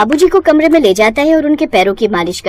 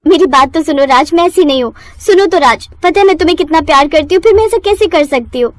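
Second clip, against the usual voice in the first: high, hurried pleading; desperate pleading; 6 semitones higher than usual. Acted. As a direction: beg the husband to believe you. Wife pleads. (गिड़गिड़ाकर मनाना)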